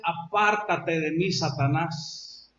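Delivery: solemn voice of the master casting out; Jesus's stern rebuke. Retold or imitated. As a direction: push him away with weight, slowly. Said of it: "Jesús y le dice".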